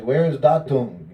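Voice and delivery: mock demand from the teacher, called out; calling impatiently through the house. Guru demanding his twig at dawn.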